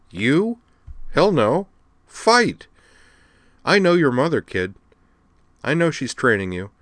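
a brash admiral rallying youngsters; tough admiral Aya. Acted. Aya voiced in read story.

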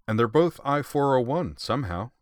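grinning as you say it. A narrator's reading. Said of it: "Leon put in, grinning".

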